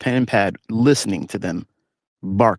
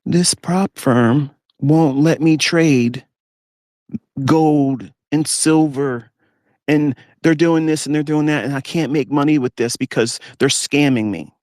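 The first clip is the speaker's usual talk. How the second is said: higher, slow, whiny mock grievance; mock complaining; 5 semitones higher, slower than usual. Mocking traders who whine at prop firms, higher whiny mock complaint. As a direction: play the sulky trader blaming the firm. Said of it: "crying and complaining about".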